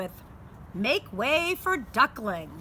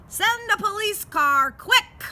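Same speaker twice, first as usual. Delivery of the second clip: urgent request; 9 semitones higher, 4 dB louder than usual. Acted. Urgent call for police car.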